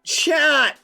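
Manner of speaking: high gasping astonishment; real delighted surprise; amazed. Real, not acted. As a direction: gasp with wonder at the sight. Sees a statue built.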